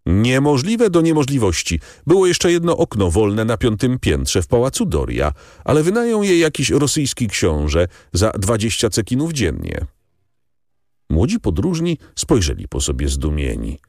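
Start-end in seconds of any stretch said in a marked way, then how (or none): 0.0-9.9 higher, animated innkeeper insisting; a hint of a self-important Italian host, exaggerating; emphatic innkeeper. A narrator's reading. Innkeeper refusing the young travellers, lightly voiced and emphatic.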